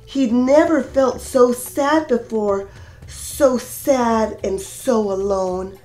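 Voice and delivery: gentle sing-song storybook reading; lilting read-aloud for a class; reading to children. A narrator's reading. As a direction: read it like storytime for little kids. Reads picture book aloud.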